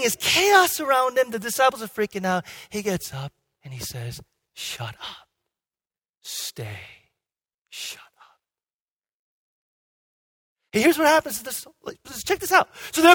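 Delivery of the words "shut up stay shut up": very low, hushed command, word by word; unpostured command. Retold or imitated. Jesus calming the chaos, hushed and without posturing. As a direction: barely raise the voice, pause between each order. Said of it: "There's no posturing".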